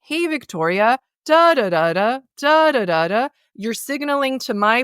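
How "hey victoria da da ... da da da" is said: "Hey, Victoria" with the A in "Hey" stretched long; lengthened vowels. Shown as a demonstration. Coach demonstrating longer vowels, "Hey" stretched. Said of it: "slightly lengthen certain vowels".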